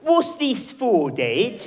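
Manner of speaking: put-on high, slow, loud kid's question; child voice. Son in the bath asks dad, high slow child voice. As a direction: drag it out like a puzzled little boy.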